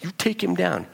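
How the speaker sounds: high, pumped bro voice egging him on; a fan hyping up his hero, mock cheer; hyped-up fan. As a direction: cheer your guy on like a buddy.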